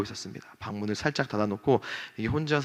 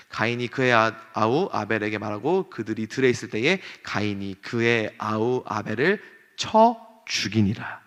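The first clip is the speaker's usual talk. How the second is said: scripture reading; 2 semitones lower than usual. Acted. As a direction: read the verse gravely, slowing down. Reads scripture aloud. (엄숙한 성경 봉독)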